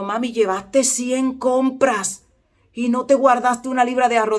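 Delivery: high, slow, drawn-out complaint to mom; imitated child's reproach. Hungry son asks mother about the groceries she gave away, imitated high reproach. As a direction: mimic an incredulous child scolding mother.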